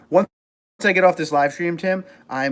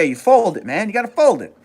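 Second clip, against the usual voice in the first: loud, punchy New York accent; big insistent New York voice; 6 semitones higher, 6 dB louder than usual. Shown as a demonstration. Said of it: "I could turn it on".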